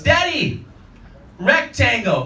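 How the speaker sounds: put-on high little kid; toddler voice. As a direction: say it like a proud two-year-old. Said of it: "and goes".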